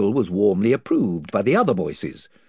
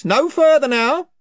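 invisible chief, louder; 7 dB louder than usual. Acted. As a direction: repeat the warning with more force.

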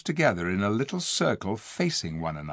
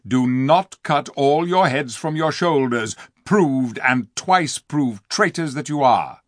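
stern king. Acted. King Tirian rebukes the dwarf.

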